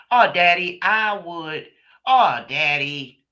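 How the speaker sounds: high, loud, breezy brush-off; dismissive little girl. Retold or imitated. Daughter waving off her father's safety lecture, high and breezy. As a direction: brush it off like a carefree child. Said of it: "she would".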